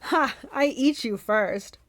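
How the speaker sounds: loud, slow monster bellow; bellowing Cyclops. Acted. Cyclops rising over Percy, bellowing. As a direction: boom it down at the tiny hero.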